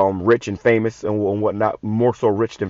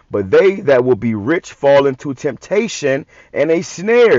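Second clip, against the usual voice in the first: scripture reading; 2 semitones higher, 3 dB louder, slower than usual. Acted. Preacher warning the rich from the verse, slow then ringing out. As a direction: read slowly then hit the last word.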